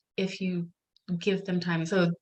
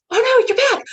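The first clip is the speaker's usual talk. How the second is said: much higher and louder, mock horror at mom's return; mock dismayed baby; 8 dB louder than usual. Toddler reacting to mom reopening the door, mock dismay. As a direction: play the baby groaning that mom came back. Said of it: "looked at me and went".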